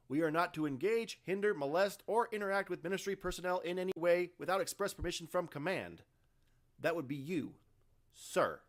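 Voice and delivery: loud, high formal recitation; stiff corporate officer. Acted. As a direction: recite the rules like a bureaucrat. Laban recites orders pointedly.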